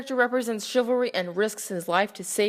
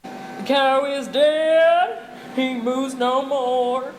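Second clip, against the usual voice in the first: mock solemn; 4 semitones higher, 4 dB louder, much slower than usual. Mock eulogy for run-over cow.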